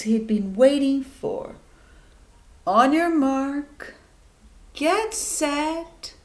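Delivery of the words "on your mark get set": rising to a huge GO; starter's shout. Acted. Race starter calling the start, rising to a shout. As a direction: build the countdown into a loud yell.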